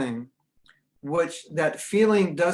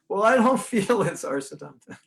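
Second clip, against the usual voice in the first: protesting devotee; 5 semitones higher than usual. Acted. Voices objecting devotee, laughing.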